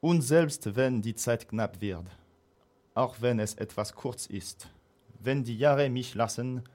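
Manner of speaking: slow, solemn stage reading; declaiming. Acted. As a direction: recite it like a hammy stage actor. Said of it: "je vais déclamer tout ça en allemand". (déclamation lente et théâtrale)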